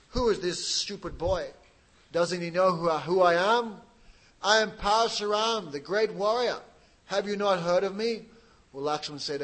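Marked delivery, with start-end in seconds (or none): 0.1-8.3 louder, boastful angry bluster; angry warrior. Acted. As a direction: thunder out who you are to the boy. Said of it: "He became very much angry".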